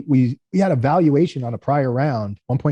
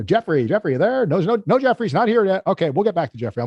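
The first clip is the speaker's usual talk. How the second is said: mock roll call; 7 semitones higher than usual. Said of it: "They would, like, name".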